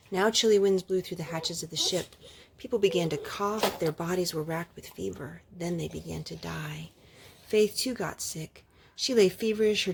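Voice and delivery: gentle read-aloud storytelling voice; story narration. Acted. Mother reading a picture book to her children, gently.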